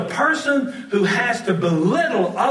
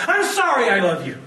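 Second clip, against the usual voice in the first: exasperated snap; 2 semitones higher, faster than usual. Shown as a demonstration. To the woman at date's end, annoyed apology. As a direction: toss it off in frustration, annoyed. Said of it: "Not quite the same, is it?".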